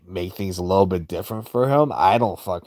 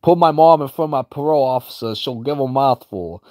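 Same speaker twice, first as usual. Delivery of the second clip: mock headset scream; 5 semitones higher than usual. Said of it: "He's like".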